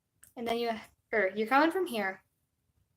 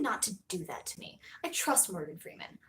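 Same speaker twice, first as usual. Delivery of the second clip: whisper; 3 semitones lower, 7 dB quieter than usual. Real, not acted. Whispered aside about Morgan Freeman.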